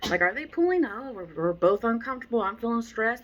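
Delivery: high, loud mock panic of a flustered owner; a flustered dog owner losing grip; mock anxious owner. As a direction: squeak it out like a stressed owner. Mimicking stressed owner.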